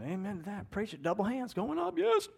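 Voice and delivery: congregation amen. Retold or imitated. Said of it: "some of you are going".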